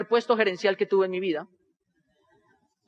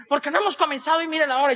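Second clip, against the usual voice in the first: higher-pitched mock irritation; annoyed organizer; 6 semitones higher than usual. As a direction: complain like an upset event organizer. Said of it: "yo veo que estaba molesta". (organizadora molesta, imitada)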